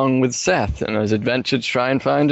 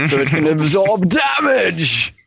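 excited shout; 3 semitones higher than usual. Real, not acted. Joking shout about her face.

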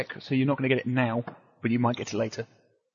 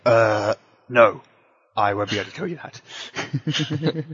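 mock evasive reply; 5 semitones lower, much slower than usual. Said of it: "I was half expecting you to say".

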